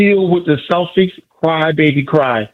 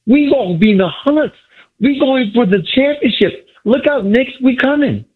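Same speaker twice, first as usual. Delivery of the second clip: excited fan; 6 semitones higher than usual. Real, not acted. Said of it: "excitement that you got in your voice".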